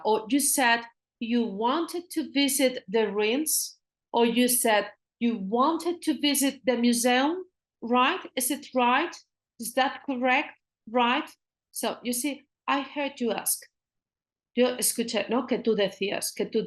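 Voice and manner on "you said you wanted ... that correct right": slow polite check. Shown as a demonstration. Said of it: "polite ways".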